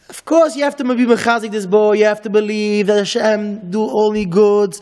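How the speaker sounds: put-on a rabbi lecturing a doubting boy, insistently; firm lecture. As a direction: drive each you have to home like a rebbe.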